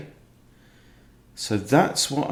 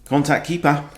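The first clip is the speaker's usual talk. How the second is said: higher-pitched mock New Zealand umpire call; 4 semitones higher than usual. Streamer imitating a netball umpire, New Zealand accent. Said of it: "All netball umpires seem to be from New Zealand".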